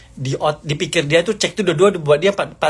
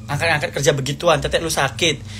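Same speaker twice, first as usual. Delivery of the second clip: ordinary talk, nothing marked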